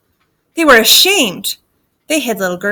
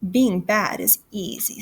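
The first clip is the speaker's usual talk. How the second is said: quiet, sinister witch voice; softly wicked; worst witch; 6 dB quieter than usual. Acted. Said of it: "said the worst witch".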